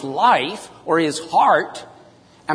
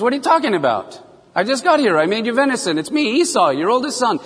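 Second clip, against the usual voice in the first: Esau protesting, pitched up high; indignant surprise; 5 semitones higher, faster than usual. Retold or imitated. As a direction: insist in disbelief, pitch raised. Esau protests to his father.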